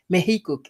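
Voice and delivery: "Mexico" as Meh-hee-ko, x as h; Spanish pronunciation. Shown as a demonstration. Showing off to viewers, Spanish pronunciation. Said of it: "Did you hear that?".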